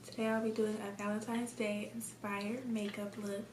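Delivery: tired monotone delivery. Real, not acted. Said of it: "I'm sorry for the monotone voice".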